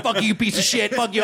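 high mock troll swearing; little caged troll. Little troll in a cage cursing visitors, high mock-angry voice. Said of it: "like, it's a little troll in a cage".

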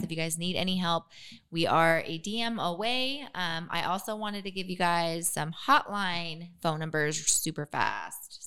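slight lisp on the S sounds; lisping through aligners; lisp from teeth aligners. Real, not acted. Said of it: "Sorry for my lisp and my S".

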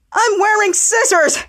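high, stretched-out boast; acted triumph. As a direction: announce it slowly with mock glee. Retold character triumphs.

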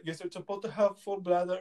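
lightly attempted Indian accent; a hint of a badly faked Indian accent. Doctor answering the patient, half-hearted Indian accent. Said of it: "That was a horrible Indian accent".

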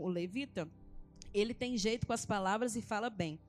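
lightly emphatic Bible reading, phrase by phrase; scripture reading aloud. Acted. Woman reading Moses' exchange with God to church, scripture reading.

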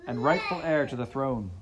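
high, loud screamed demand; screaming. Acted. Heather screaming at Kyle, furious. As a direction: scream it into his face. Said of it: "She was screaming at him".

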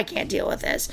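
retold, breathy whisper. Telling Nathan she can't cope, whispering. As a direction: drop to a whisper, worn out.

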